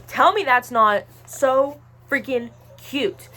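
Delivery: slow, loud, gushing delight. Real, not acted. Showing viewers the Bark Box, gushing slow and loud. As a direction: drag it out, overwhelmed by cuteness.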